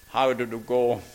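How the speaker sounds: lightly imitated posh Glaswegian headmaster; a hint of marble-in-the-mouth Glasgow posh; posh Glasgow accent. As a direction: put on a slightly plummy Glasgow accent. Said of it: "he had a very posh accent".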